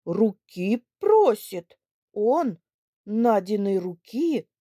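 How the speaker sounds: loud, slow disbelief; old man stunned by the news; astonished. Acted. (изумлённо)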